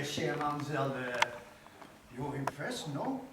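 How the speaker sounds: hastily put-on French accent. A caught-out fake Frenchman to the maid, in a French accent. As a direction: slip back into the French accent. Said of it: "it appears you have lost your French accent".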